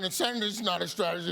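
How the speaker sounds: fast, punchy deadpan repeat; mock-emphatic repeat. Host repeats the line again, fast and deadpan. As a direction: hammer the quote home for the audience.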